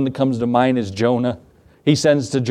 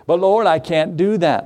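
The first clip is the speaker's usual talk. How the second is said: higher-pitched mild protest; reluctant objection; 4 semitones higher than usual. Retold or imitated. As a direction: plead your way out of it. Acting out reluctant servant's objection to God.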